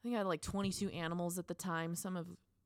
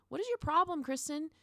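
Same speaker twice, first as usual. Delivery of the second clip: scolding herself; 4 dB louder than usual. Retold or imitated. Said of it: "be like".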